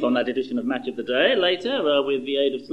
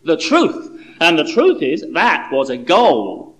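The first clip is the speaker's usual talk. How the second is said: indignant insistence; 7 dB louder, slower than usual. Acted. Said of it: "insisted John indignantly".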